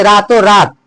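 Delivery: रातों pushed harder, रात left unstressed; stress on रातों. Shown as a demonstration. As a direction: lean on रातों, let रात fall away. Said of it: "रातों पर बल लग रहा है". (रातों पर बल, रात हल्का)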